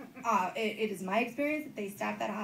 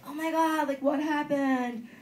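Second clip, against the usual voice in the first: concerned strangers' shock; 4 semitones higher, 5 dB louder, slower than usual. Retold or imitated. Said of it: "more willing to be like".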